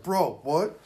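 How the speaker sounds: mock a gamer's disbelief; Ninja. Prompting a friend's streamer impression, mock incredulous. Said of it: "do the Ninja impression".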